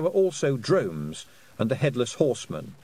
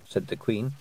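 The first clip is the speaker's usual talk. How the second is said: plain reading voice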